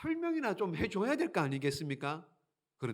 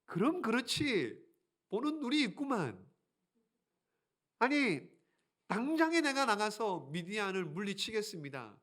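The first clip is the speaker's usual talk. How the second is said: higher, smug boast; mock-proud higher voice; cocky Gideon; 4 semitones higher than usual. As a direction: puff up like a flattered hero. Gideon's imagined proud reaction.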